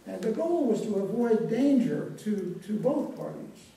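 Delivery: "danger" picked out with extra force; stress on danger. Real, not acted. Lecturer warning of risk to both parties, "danger" emphasized. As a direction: lean firmly on the word "danger". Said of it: "I do want to emphasize the word danger".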